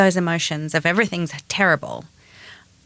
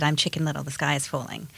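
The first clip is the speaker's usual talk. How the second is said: mock doom; 4 semitones lower, 9 dB quieter than usual. Quoting her own panicked text.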